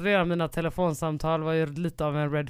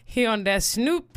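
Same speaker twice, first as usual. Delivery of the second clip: stoner joke; 7 semitones higher, 6 dB louder, much slower than usual. Acted. Joking about a heavy smoker.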